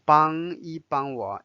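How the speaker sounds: 一 in 帮一帮我 light and toneless; 帮一帮我 with 一 unstressed in neutral tone. Shown as a demonstration. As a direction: pass lightly over 一 between the two 帮. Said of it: "一 take the neutral tone".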